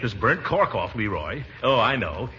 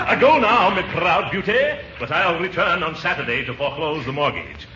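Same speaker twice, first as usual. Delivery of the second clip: hammy stage villain; 5 semitones higher than usual. Acted.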